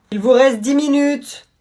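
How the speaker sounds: drawn-out classroom announcement; calling time to class. Acted. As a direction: call it out slowly across a classroom. Teacher calls time to class.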